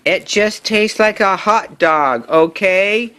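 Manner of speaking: pigeon shouting. Acted. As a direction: snap it out, fed up with the duck. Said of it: "shouts the pigeon".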